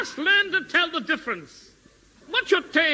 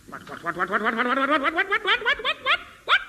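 what repeated, climbing higher each time; rising disbelief; 3 semitones higher, faster than usual. Acted. Shock that ravens are gone.

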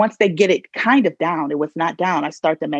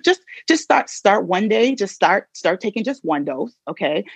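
mock dismissive doctor; 3 semitones higher than usual.

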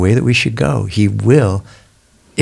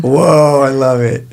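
high, drawn-out delighted whoa; real delight; 5 semitones higher, slower than usual. Real, not acted. Co-host cheering a guest's testimony, delighted. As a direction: react with real, rising-pitched excitement. Delighted reaction to her resurrection remark.

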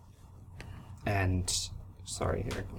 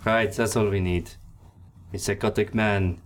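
louder scoffing sarcasm; 2 semitones higher, 5 dB louder than usual. Acted. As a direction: sneer at the idea. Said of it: "Omnia scoffs".

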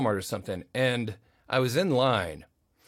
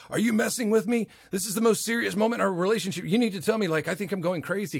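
incredulous pleading; 7 semitones higher, faster than usual. Retold or imitated. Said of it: "I was like".

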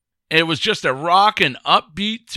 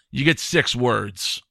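slow, flat, deadpan delivery; 2 semitones lower, slower than usual. Retold or imitated. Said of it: "he's like".

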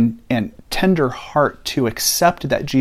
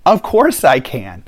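indignant; 3 dB louder than usual. Retold or imitated. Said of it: "Jesus looks at him indignantly and goes".

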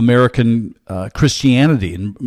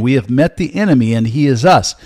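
faster, lighter run through the quote; quicker repeat. Shown as a demonstration. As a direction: repeat it briskly as a reminder. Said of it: "I'll say it again".

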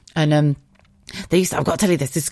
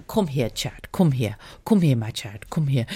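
imitated Jamaican accent, comforting; Margaret. Jamaican woman comforting a crying patient, imitated accent. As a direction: beckon tenderly in a put-on Jamaican accent. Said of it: "this Margaret, bless her, she went".

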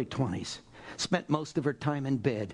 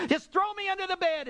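high-pitched fervent plea; impassioned acted prayer, pitched way up; Saint Teresa; faster than usual. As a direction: cry it out in self-abandon to God. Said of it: "And said, "God".

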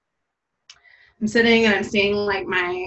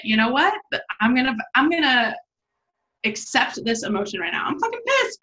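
retold livid; 2 semitones higher than usual. Woman retelling her iced-coffee spill, mock livid outburst. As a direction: act out fed-up anger, voice leaping up on the last words. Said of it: "was livid".

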